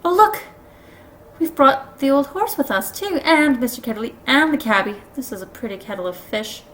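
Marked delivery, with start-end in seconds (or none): 0.0-5.0 high, loud exclamation of discovery; crying out. A narrator's reading. Polly pointing out who came along, crying out. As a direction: call out in excited alarm. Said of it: "Polly cried out".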